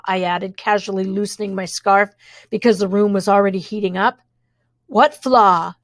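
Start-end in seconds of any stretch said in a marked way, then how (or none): 4.9-5.7 suspicious. Acted. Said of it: "asked the twins suspiciously".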